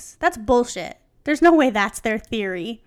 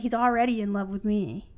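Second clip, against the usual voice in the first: teasing. Shown as a demonstration. Reader retries Cartman's line as if teasing a friend, teasing. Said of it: "just teasing him".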